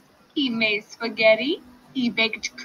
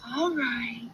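sighing; 3 semitones higher, 6 dB quieter than usual. Acted. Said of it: "sighed the piglet".

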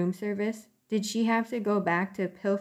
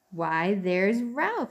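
slow, lightly squeaked aunt mouse; a hint of a squeaky aunt; 3 dB louder, much slower than usual. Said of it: "squeaked his Aunt Sissy".

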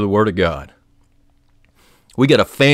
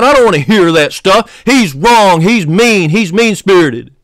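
raised, higher-pitched angry protest; indignant mock complaint; 4 semitones higher, 3 dB louder, slower than usual. Preacher mimicking mad radio listeners, indignant protest. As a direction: act out an offended listener's outburst.

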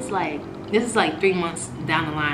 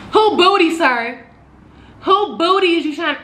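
much higher, loud disbelieving cry; incredulous; 10 semitones higher, 7 dB louder than usual. Acted. Storyteller reacting to boyfriend's butt request, loud incredulous outburst. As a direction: squawk the question in shock.

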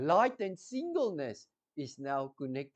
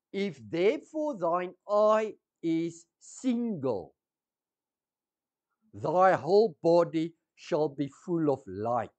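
slow, measured reading of the verse; slow scripture reading. Shown as a demonstration. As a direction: read it slowly so it sinks in. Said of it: "I'm going to read slow to you".

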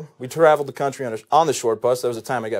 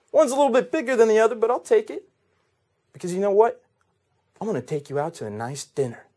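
lightly voiced pickup artist; 2 semitones lower than usual. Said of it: "the monogamous pickup artist".

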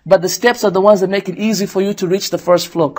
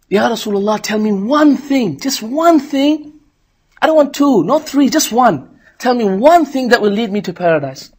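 pleading Bedouin; 4 semitones higher than usual. Retold or imitated. Arab pleading to Prophet.

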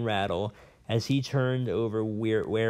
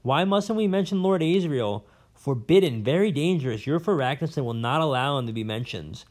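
a lightly voiced old scholar, rambling and bitter; a hint of a cranky old professor holding forth; jailed old professor; 5 semitones higher, 3 dB louder than usual. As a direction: play the disgraced academic nursing his grudges. Professor frightened about Asriel.

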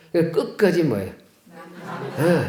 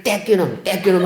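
mock scolding; 4 semitones higher than usual. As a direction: scold it like a parent soothing a fallen child. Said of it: "돌멩이를 혼내주면". (아이 달래려 짐짓 혼내듯 크게)

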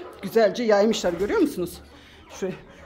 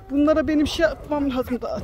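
usual speaking voice

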